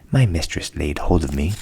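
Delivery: fearful cat telling its troubles; worried old cat. A narrator's reading. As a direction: plead as a cat afraid for its life. Cat voiced in whispered tale.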